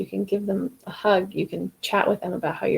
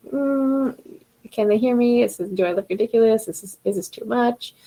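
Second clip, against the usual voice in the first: gremlin voice; 3 semitones higher than usual. Acted. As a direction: voice the anxious little gremlin in her head, lightly. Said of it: "all these gremlin voices in your head".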